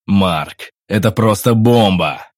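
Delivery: loud joyful cry; excited exclamation. A narrator's reading. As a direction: burst out happily. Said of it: "радостно воскликнул мужчина". (радостный возглас)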